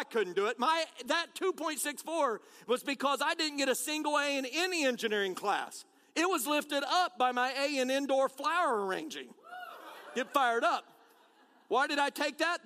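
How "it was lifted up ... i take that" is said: laughing. Real, not acted. Laughing at own flower class.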